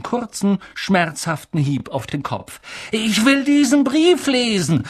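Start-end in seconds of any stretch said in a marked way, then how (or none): 2.9-4.8 put-on high, insistent boy's demand; loud demand. A narrator's reading. Dudley demands to read the letter, loudly. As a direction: demand it high like a spoilt child. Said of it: "sagte er laut".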